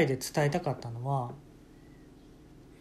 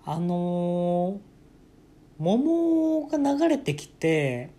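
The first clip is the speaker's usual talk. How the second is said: composed explainer; 3 semitones higher than usual. Retold or imitated. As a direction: explain it like a calm expert, stretched. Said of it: "そういう喋り方してて".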